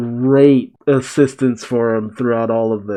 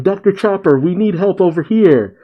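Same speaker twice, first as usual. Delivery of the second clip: higher, urgent call for the doctor; 6 semitones higher than usual. Retold or imitated. Wounded people calling for Doctor Chopper, urgent. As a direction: call across the room for help. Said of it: "other people are yelling".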